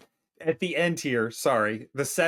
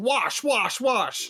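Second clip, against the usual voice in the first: imitating Candy; 7 semitones higher, much slower than usual. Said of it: "Candy going".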